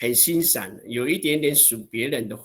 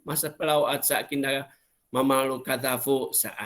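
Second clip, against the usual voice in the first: lamenting sigh. Shown as a demonstration. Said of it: "这是蛮简单的".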